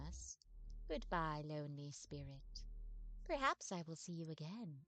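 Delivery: wistful ghostly vampire telling her sad past. Acted. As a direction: sigh it out like a weary centuries-old vampire. Vampire ghost bids goodbye.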